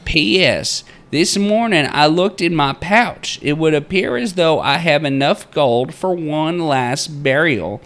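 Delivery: high, loud-edged theatrical proclaiming; old-time miner's journal. Acted. Narrator reading the miner's journal entry aloud, theatrical miner voice. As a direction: read it out like a grandiose frontier diarist.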